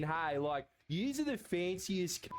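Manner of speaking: slow ocker Australian voice; broad Aussie bloke. Pretend. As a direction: play the impressed Aussie larrikin. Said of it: "he's such a good accent".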